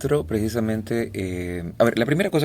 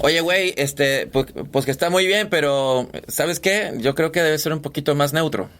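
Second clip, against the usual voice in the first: light Mexican accent imitation; Mexican client; 2 semitones higher than usual. Retelling the Mexican client's request, mild Mexican accent. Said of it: "le metí un poquito de mexicano".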